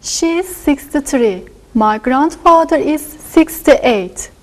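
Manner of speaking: ordinary talk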